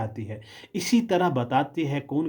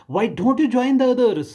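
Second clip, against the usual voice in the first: put-on much higher and louder, slow, stern teacher scolding a child; 10 semitones higher, 7 dB louder, much slower than usual. Kindergarten teacher scolding the odd little girl, high and loud. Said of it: "उसने मुझे कहा".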